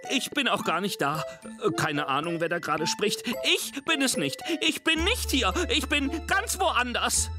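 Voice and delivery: tiny scared monster hiding in the box; high frightened voice. Acted. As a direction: squeak it out, hoping to go unseen. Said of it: "eine helle, ängstliche Stimme".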